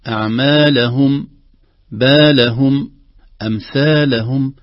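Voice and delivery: أعمالهم with extra stress on هم, rising; stress on the هاء. Shown as a demonstration. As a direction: press the هاء in بالهم. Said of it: "نبرة صوتية خفيفة على الهاء".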